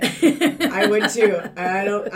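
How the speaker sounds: words through laughter; laughing. Real, not acted. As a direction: laugh while saying it. Laughing at joke.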